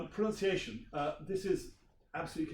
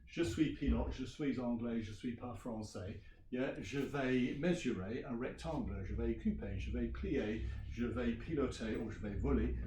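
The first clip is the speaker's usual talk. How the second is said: pupil's script read out; 3 semitones lower than usual. Shown as a demonstration. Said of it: "this one goes".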